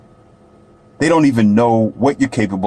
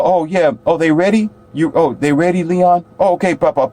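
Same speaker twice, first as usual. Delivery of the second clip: high, eager hails, much higher throughout; light up like you've spotted a star; excited greeting; 8 semitones higher than usual. Retold or imitated. His people greeting Leon in the waiting room, high and excited.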